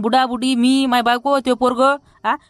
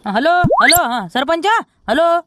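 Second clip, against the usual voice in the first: calling on phone; 4 semitones higher, slower than usual. Acted. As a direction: call out to reach the other end.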